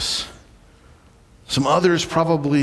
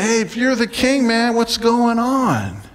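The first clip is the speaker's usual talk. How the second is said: higher, challenging retold heckle; arguing crowd; 6 semitones higher than usual. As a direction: challenge him, stretching out the closing question. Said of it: "people are arguing".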